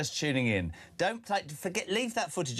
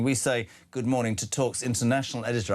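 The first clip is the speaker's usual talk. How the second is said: put-on posh English, lower pitch; lower, posh presenter accent; 4 semitones lower than usual. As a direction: introduce a guest in mock-posh English. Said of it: "I've gone very posh".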